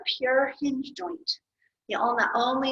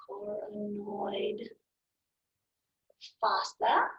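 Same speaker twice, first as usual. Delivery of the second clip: slow spelled-out label; 6 dB quieter, much slower than usual. Shown as a demonstration. Labelling the drawing slowly.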